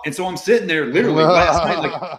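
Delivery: rushed, laughing self-mockery; laughing at himself. Real, not acted. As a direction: laugh through the memory. Mocking his own false hope.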